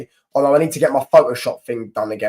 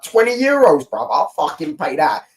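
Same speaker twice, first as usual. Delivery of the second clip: acted-out thrilled disbelief; eager mock amazement; 3 semitones higher than usual. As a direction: blurt it out like an unbelievable bargain. Acting out his reaction to the price.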